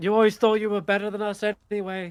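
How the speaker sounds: distant calling voice. Retelling what a voice from behind the camp said, acting out a call. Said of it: "the voice again sort of calling out".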